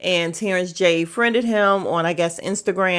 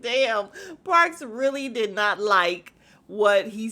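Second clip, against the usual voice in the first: laughing disbelief; slower than usual. Real, not acted. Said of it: "I was just like".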